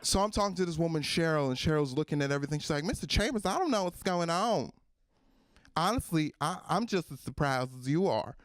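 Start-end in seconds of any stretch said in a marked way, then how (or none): 2.8-8.3 lightly voiced Southern bank clerk, pitched up at first; Southern accent. Bank clerk baffled by the account, Southern accent. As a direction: put on a mild Southern accent. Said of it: "someone who has a Southern accent".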